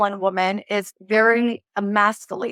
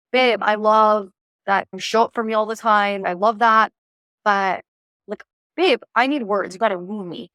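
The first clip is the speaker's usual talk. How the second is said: lighthearted playful. Shown as a demonstration. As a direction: tease him gently so he listens. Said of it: "very lighthearted and playful and jokey".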